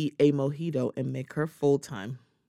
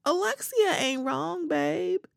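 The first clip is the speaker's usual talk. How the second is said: mocking retort; 3 dB louder than usual. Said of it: "I'm like".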